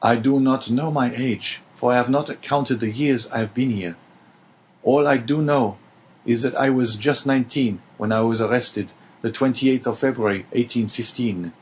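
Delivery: lightly voiced young man answering sincerely; earnest young prisoner. Dante answers the unseen voice, lightly voiced and earnest. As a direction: tell him plainly what you know.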